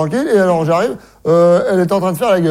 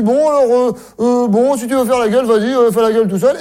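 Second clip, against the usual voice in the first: wife's voice pitched up, fed up; mock wife, higher; 5 semitones higher than usual. Wife dismisses husband, higher and fed up. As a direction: tell him off in a higher wife voice.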